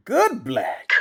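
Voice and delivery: high, incredulous echo; mock disbelief. Voice actor questioning the client's odd request, mock disbelief. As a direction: throw it back in baffled disbelief.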